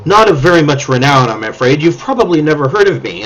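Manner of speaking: lightly voiced flustered mage; eccentric mage voice. Mage introduces herself to the party, fluttery. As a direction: play the modest, scattered mage. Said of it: "She says".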